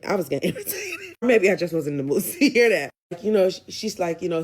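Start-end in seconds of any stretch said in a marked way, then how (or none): 0.0-1.1 laughs mid-word, breaking up high; can't keep a straight face; laughing. Real, not acted. Recapper laughing at her own irritation with the episode.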